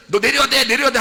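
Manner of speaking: high, loud call to get off now; shouted order. Retold or imitated. People on the train shouting at the man to get off, high and loud. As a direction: yell at him to get off the train.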